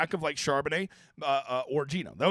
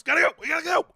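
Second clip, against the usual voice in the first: higher, urgent giddy-up call; jockey impression; 9 semitones higher, faster than usual. Streamer mimics a jockey urging his horse on. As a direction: spur the horse on. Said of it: "when you're, like, smacking the horse?".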